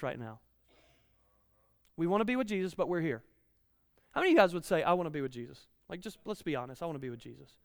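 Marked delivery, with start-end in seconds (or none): 4.8-7.6 mock reluctant confession. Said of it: "They told me to do this".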